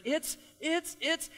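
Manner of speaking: octave-climbing excitement. Retold or imitated. Dad imitating his daughter opening her doll, squeaky-high excitement. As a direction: let the voice jump up high, mimicking her. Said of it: "her voice just, like, octave after octave".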